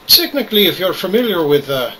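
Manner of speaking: put-on Irish brogue throughout; hammy Irish accent. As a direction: play it as a cheeky Irishman. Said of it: "today I'm playing Star Citizen with an Irish accent".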